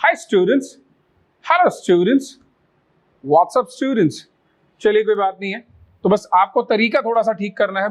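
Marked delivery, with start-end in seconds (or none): 0.0-4.1 high, bright greeting to a class; teacher mock-greets a class; friendly classroom greeting. Shown as a demonstration. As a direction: greet the students cheerily. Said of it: "आप खूब देखते हैं".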